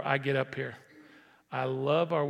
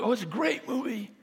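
lightly voiced cheerful moviegoer; breezy high answer tossed off; chirpy answer; 7 semitones higher than usual. A moviegoer tells a friend the film was great, breezy and high.

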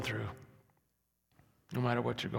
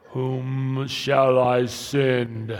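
slow, loud, drawn-out divine voice; booming voice of God; 10 dB louder, much slower than usual. Retold or imitated. Pastor voicing God to the church, slow and loud. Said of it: "I don't know if he talks like that".

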